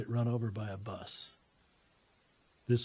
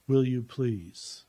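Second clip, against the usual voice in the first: slow, drawn-out gentle request; lightly voiced woman, stretching the words; woman's voice, pleading; 3 dB louder, much slower than usual. Woman's voice asking the speaker for a favor, slow plea. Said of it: "I hear the woman's voice again".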